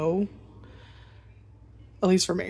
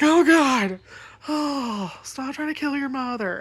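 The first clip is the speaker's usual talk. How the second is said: high, alarmed plea to the cat; panicked scolding; 7 semitones higher, 4 dB louder, slower than usual. Retold or imitated. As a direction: squeak out a startled telling-off. Cat nearly jumps off chair.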